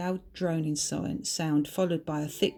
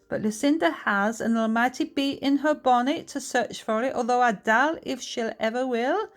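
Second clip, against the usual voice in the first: higher-pitched, lilting Scottish voice; Scottish accent; 4 semitones higher, 3 dB louder than usual. Acted. Bertha explains the serpent's secret, lilting Scottish accent. Bertha speaking dialect in story.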